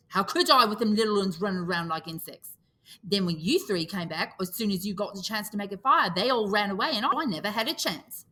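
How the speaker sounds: put-on boy's hurt protest; Piggy aggrieved. Piggy explaining to Ralph, aggrieved. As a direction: press the complaint.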